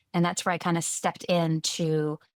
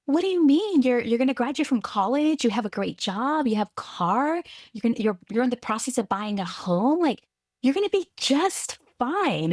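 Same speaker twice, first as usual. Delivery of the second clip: a lightly voiced mom, higher, brushing off worry; reassuring mom; 5 semitones higher than usual. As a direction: imitate mom calming her daughter. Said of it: "reassuring me".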